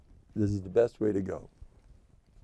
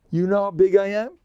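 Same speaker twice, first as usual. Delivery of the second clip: bragging, much higher and louder; mock boast; 10 semitones higher, 5 dB louder than usual. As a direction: play the grand boaster, pitch way up. Boasting in jest.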